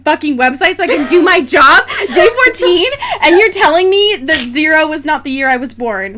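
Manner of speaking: giggly mock outrage; laughing rant. Real, not acted. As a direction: vent about the site while cracking up. Ranting about the website age check.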